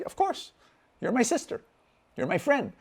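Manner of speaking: high-pitched acted reassurance; retold reassurance. Reassures the woman in retold talk.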